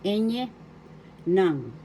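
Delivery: teacher demo of "enye" and "nang"; Tagalog letter names. Shown as a demonstration. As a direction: model "enye", pause, then "nang". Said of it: "Ang bigkas".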